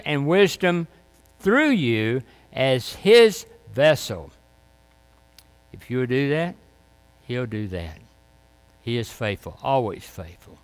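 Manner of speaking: normal talking voice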